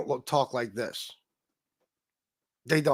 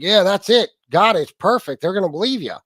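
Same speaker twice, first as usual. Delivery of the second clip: louder, higher pretend enthusiasm; mock approval; 4 semitones higher, 4 dB louder than usual. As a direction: sarcastically gush like a satisfied coach. Acting out coach approving fake voice.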